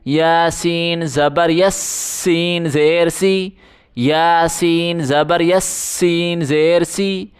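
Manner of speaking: سین with a sharp whistling hiss; whistled s. Shown as a demonstration. Teacher showing pupils a whistling seen. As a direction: let the س whistle. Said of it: "سیٹی کی آواز نکالیں".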